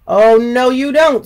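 high, loud wary refusal; gingerbread man refusing. Acted. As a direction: snap back a wary no. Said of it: "said the gingerbread man".

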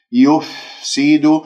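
يفسد drawn out, fa clear and unrounded; tajweed demo; slow recitation demo. Shown as a demonstration. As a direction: model يفسد slowly. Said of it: "وهذا خطأ".

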